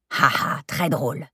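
dry, mirthless "ha ha"; unamused comeback to a jibe; sarcastic laugh. Acted. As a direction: fake laugh, deadpan finish. Carmen answers a jibe.

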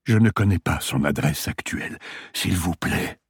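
a hint of a weak old patient; dying man voice.

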